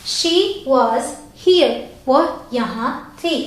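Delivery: very slow, word by word; slow example read. Shown as a demonstration. Teacher reading example sentence slowly to class. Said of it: "थी भी लिख सकती हूँ".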